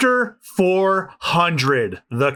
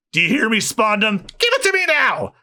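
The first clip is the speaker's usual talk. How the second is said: demanding yell; 4 semitones higher than usual. Acted. Villain demanding the blueprint, yelling. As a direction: voice jumps high as he yells.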